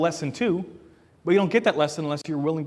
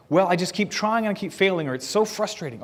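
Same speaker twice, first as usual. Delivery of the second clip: lightly acted venting, pitched higher; mildly frustrated; 4 semitones higher than usual. Child telling parent they keep failing, mildly frustrated. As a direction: voice a child's mild exasperation.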